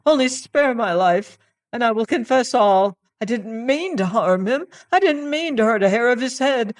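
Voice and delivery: high, loud, fast desperate pleading; terrified man on his knees begging; begging for mercy. Acted. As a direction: beg for your life. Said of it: "he cried".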